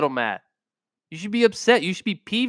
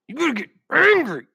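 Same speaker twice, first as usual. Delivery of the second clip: the same line pitched way up and pushed; fired-up call; 12 semitones higher than usual. Shown as a demonstration. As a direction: pump them up on the second go. Repeated, much higher second take.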